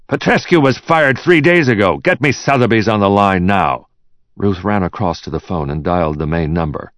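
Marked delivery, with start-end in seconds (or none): 0.1-3.9 high-pitched, agitated command; irate and urgent. A narrator's reading. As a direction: snap out the order under pressure. Acted quarrel, boss giving urgent order.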